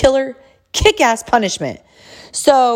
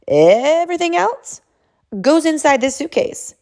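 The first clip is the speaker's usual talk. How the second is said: emphatic parental orders; 3 semitones higher than usual. Retold or imitated. Mother telling her son to pack every piece of clothing, emphatic parental orders. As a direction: spell out each order, stretching the important words.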